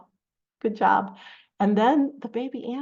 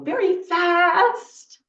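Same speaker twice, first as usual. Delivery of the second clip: quick, louder burst on "very fast"; 9 semitones higher, 9 dB louder, much slower than usual. Shown as a demonstration. Teacher showing children opposites with a scarf, very fast. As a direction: punch out "very fast". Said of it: "I can do opposites".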